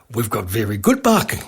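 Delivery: imitated Indian accent. Newsagency owner answering about parking, in an imitated Indian accent. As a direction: put on an Indian English accent. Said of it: "He was an Indian fella".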